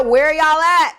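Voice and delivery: high, loud, insistent repeat; emphatic grievance. Retold or imitated. Proving to viewers her text went unanswered, emphatic grievance. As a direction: call it out loudly, making a point.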